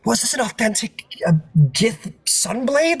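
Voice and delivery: high, hushed whisper in wonder; awed whisper. Acted. Tiefling to the player about the sword, awed whisper. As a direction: breathe it out, barely voiced. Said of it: "she goes, like".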